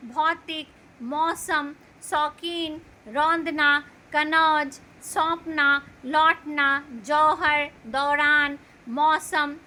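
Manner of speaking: each word spoken slowly and distinctly, with a full open "औ" vowel; a teacher reading a word list aloud, pausing between words; clear au sound. Shown as a demonstration. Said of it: "बोलते वक्त अ का उच्चारण होता है".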